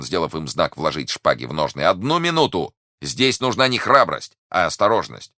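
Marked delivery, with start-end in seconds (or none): 1.8-5.3 raised, urgent restraining voice; exclaiming. A narrator's reading. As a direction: call out high to stop them. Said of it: "воскликнул Д'Артаньян". (высокое настойчивое восклицание)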